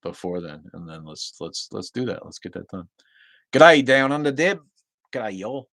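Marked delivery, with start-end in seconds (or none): 3.5-5.7 high, loud Australian greeting; Australian accent. Acted. Livestreamer greeting a viewer in Queensland, Australian accent. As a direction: mimic an Australian hello. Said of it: "I do accents".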